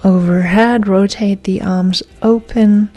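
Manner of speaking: measured, paused yoga-class cueing; guided yoga instruction. Real, not acted. Yoga teacher guiding class through breaths, calm measured instruction. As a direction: cue each breath and movement, leaving space.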